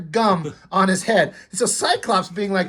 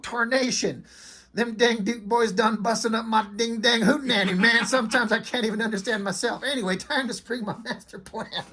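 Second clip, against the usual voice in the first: mock Boss Hogg; 3 semitones higher, 4 dB quieter than usual. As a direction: ham up a country villain.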